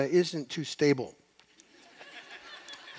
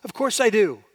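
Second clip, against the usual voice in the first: Jonah protesting; 5 semitones higher, 5 dB louder, slower than usual. Retold or imitated. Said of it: "He's going".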